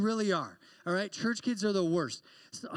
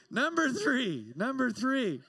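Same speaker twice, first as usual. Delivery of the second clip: emphatic slow announcing; 6 semitones higher, 4 dB louder, slower than usual. Real, not acted. Announcing next point.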